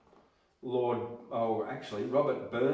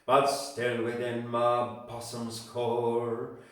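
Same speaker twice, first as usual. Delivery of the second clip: put-on poem read in a mild Scottish accent, slow and swelling; gentle Scottish-accented recitation, building louder on the grief; light Scottish accent; 5 dB louder than usual. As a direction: give Burns a touch of Scottish lilt for the rhymes. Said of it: "a bit of a, a Scottish accent".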